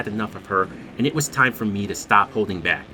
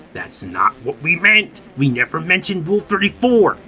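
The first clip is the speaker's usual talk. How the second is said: imitating an indignant objection, building higher; indignant friend; 6 semitones higher, 4 dB louder than usual. Chris corrects the friend in the party, indignant.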